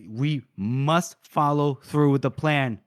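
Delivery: slow, deliberate mock command; firm insistence. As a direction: spell out the order slowly. Acted insistence on the plan.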